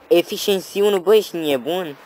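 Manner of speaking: high-pitched excited disbelief; amazed. Real, not acted. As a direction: exclaim in thrilled disbelief. Amazed at enchanted item.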